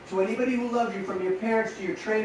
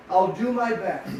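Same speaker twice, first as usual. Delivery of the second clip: slow, deliberate promise; 3 dB louder than usual. Shown as a demonstration. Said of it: "What did you say?".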